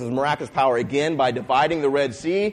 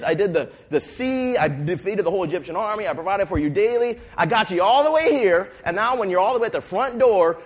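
rising exasperated rebuke, higher and louder; angry God; 5 semitones higher, 4 dB louder than usual. Acted. God, furious at his people who won't trust him: hurt, rising anger. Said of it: "He was so angry".

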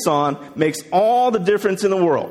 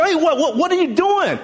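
high-pitched, stammered disbelief; shocked psychologist; 10 semitones higher than usual. Retold or imitated. Psychologist finds boy playing in manure, acted shock. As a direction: imitate a startled woman stumbling over her question. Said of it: "shock, she's, like, seeing this boy covered".

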